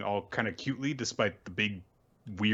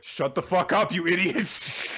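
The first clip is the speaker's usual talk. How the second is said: high, exasperated character voice, stretched at the end; mock angry yell; 8 semitones higher than usual. Retelling Pyra telling off Kazuha, in a high mock yell. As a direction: imitate a furious squawk at fools. Acts out Pyra snapping at companions.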